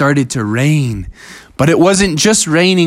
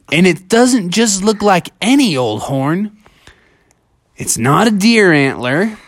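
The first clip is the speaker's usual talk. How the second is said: lightly voiced, mostly higher story character; a hint of wondering hero; puzzled Bubby; 5 semitones higher than usual. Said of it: "And he said to himself".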